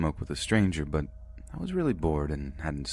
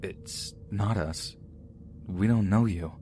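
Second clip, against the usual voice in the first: shaky voice; 3 semitones higher, slower than usual. Retold or imitated. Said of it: "speaking in a very shaky voice".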